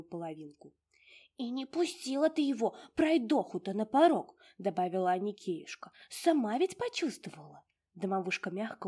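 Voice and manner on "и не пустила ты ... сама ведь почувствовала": high, loud fussy house-spirit voice; a tiny old domovushka fussing over her mistress; high bustling little house spirit. Acted.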